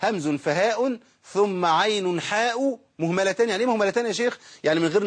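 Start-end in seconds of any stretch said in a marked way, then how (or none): 0.0-3.5 slow, measured verse recital; reciting the text. Acted. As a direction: chant the line slowly and evenly. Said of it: "الشيخ قال إيه؟".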